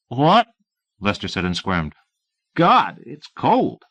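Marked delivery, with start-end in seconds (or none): 0.1-0.5 startled. A narrator's reading. Sleepy deputy startled. 2.5-3.8 high, slow, shivering whine; drawn-out moan against the cold; shivering complaint. A narrator's reading. Cold deputy waking at dawn, shivering whine.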